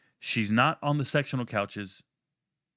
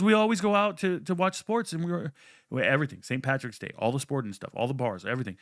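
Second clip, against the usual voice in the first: imitating girlfriend; 3 semitones higher than usual. Ex-girlfriend excusing her drinking to him, high mock protest. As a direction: mimic her whiny excuses, pitched way up.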